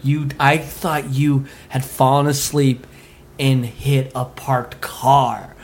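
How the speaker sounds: slow, measured, pausing midway; retold regretful explanation. Dad explaining to his son, slow and regretful. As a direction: spell it out slowly, imitating a parent.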